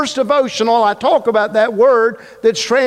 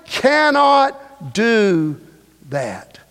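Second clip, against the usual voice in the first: Jeremiah refusing; 4 semitones higher, much slower than usual. Acted. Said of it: "Jeremiah said".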